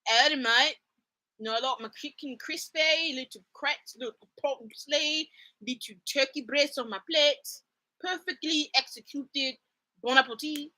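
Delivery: badly faked Southern accent. Shown as a demonstration. Asked to do a Southern accent, hammed-up Southern attempt. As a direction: put on a wobbly mock Southern accent. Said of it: "a Southern accent?".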